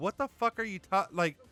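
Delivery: put-on irritated, annoyed tone. Speaker retells snapping at people who say he's angry, retelling an irritated reaction. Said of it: "Now I'm angry because you're telling me".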